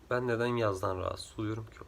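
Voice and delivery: drowsy, just-woke-up voice; sleepy, heavy morning voice. Real, not acted. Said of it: "Çok uykulu geliyor sesim".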